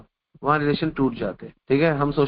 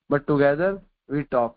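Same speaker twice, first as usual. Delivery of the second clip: very slow, word by word; slow maxim; much slower than usual. Acted. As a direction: spell out the lesson slowly for the listeners.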